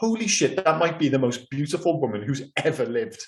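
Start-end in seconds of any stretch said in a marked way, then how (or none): none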